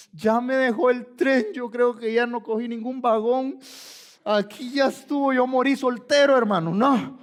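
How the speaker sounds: hammed-up lament of a desperate boy; mock despair, pushed out emphatically; mock tearful wailing. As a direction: wail it as an exaggerated hopeless complaint. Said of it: "Viene un chico llorando y dice".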